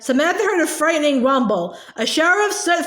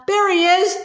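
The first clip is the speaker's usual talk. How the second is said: excited higher cry; shout; 5 semitones higher than usual. Acted. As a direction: point out the dog with a shout. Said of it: "shouted Agatha".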